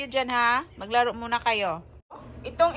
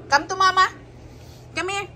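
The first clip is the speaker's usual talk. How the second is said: pet talk; 7 semitones higher, faster than usual. Real, not acted. Calling the cat to mama.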